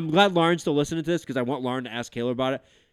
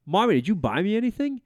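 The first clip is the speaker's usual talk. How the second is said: higher, a hint of a curious kid; lightly voiced child; 6 semitones higher than usual. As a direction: lightly imitate a little boy asking his mother. Voicing his young son in story.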